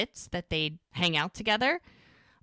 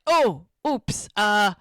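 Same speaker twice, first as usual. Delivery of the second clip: caught-out fluster; 3 semitones higher, 8 dB louder, much slower than usual. Retold or imitated. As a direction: play it like you just let the secret slip. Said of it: "she gotta come up with something".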